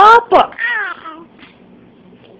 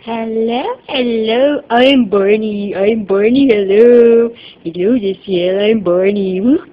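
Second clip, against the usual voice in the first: Barney voice; 4 semitones lower, slower than usual. Pretend. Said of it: "Utol kay ni Barney".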